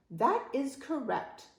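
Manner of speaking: high, slow, formal reply; proper-speaking rascal. Acted. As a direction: answer slowly, in un-piratelike propriety. Rascal answers in un-pirate speech.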